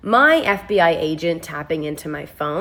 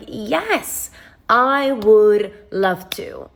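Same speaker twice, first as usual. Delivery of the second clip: mock eagerness; 3 semitones higher, much slower than usual. Answering the stranger's favor request, mock eager. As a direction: stretch it out with exaggerated willingness.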